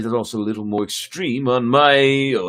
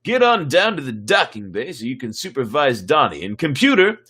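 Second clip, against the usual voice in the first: lightly voiced blustering space commander; a hint of a pompous starship captain; Zap Brannigan voice. Commander giving orders to his crew, a touch of Zap Brannigan. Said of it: "you do like my Zap Brannigan voice".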